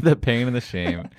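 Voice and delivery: laughing, slowed echo. Pretend. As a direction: repeat it with a chuckle. Echoing the phrase with a laugh.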